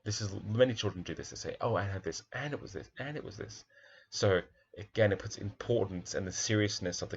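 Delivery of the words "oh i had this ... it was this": put-on lightly childlike, rising higher and softer; a light imitation of a child listing. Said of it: "the childlike voice".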